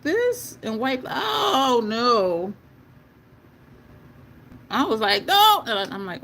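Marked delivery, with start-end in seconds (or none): 5.2-5.6 sharp high shout of no; retold yell. Makeup artist yelling at client to stop. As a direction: snap a loud no at her. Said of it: "sorry for yelling at you".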